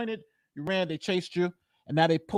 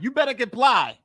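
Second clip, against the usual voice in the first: acted threat; 4 semitones higher, 4 dB louder than usual. Acting out an armed command.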